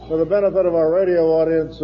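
flat, dry, straight-faced read; deadpan. Shown as a demonstration. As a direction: say it totally deadpan, no smile. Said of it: "this was done deadpan".

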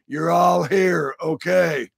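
ordinary talk

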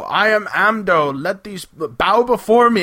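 lightly hammed-up speaking statue; mock idol voice. Ben and Polly speaking as Amdo's statue, mock commanding. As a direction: play a mock god commanding worshippers. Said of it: "use Amdo's voice as, like, a puppet".

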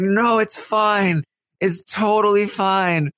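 high, strained insisting she's fine; forced it's fine. Retold or imitated. Alyssa, hurt, insisting to Taylor she's fine, high strained. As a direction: push out a brave it's totally fine.

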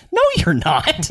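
high, flat-out no; mock firm refusal. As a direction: shut him down, half-mocking. Retold refusal in movie scene.

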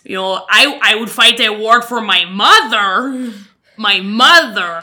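hammed-up Quebec attempt, drifting off-target; badly faked French accent, savouring MOTHER; mock French accent. Quebecker who'd fight a war for mother, mock French accent. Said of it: "You sound like a Jewish French woman".

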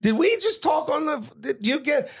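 high-pitched surprised question; puzzled, voice jumping way up; Erwin Winkler. Retold or imitated. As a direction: imitate a man suddenly recognizing a caller. Winkler retold recognizing the caller.

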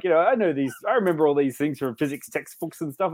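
normal talking voice

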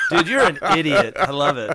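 talking through laughter; laughing. Real, not acted. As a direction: laugh while you say it. Laughing at friend's joke.

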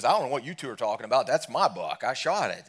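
brisk, lightly acted squabble; mock arguing. Deacon disputing the pastor's buck, mock argumentative. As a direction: play a deacon staking his claim in a joke. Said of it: "they're sitting there arguing".

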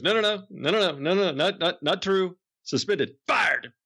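a hint of a frantic announcer; protesting announcer. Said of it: "Dave Bryan goes".

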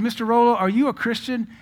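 put-on high, loud question to an old man; acted eager question. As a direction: call it out high to an elderly man. Preacher acts out his question to old man.

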